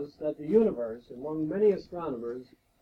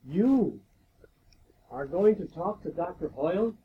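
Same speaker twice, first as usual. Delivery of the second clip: awed students; 3 semitones higher, 4 dB louder than usual. Retold or imitated. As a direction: play the starstruck students, wide-eyed. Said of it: "And they said".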